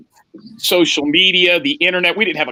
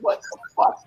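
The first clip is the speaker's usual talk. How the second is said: much higher, squeaky disbelief; shocked squeak; 5 dB quieter than usual. Retold or imitated. Hearing the car exploded, squeaky shocked reply.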